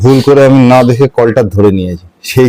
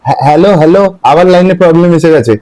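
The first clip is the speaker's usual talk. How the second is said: fake bad line; 4 semitones higher than usual. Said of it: "টাকার কথা বললেই তোমার লাইনে প্রবলেম হয় না?".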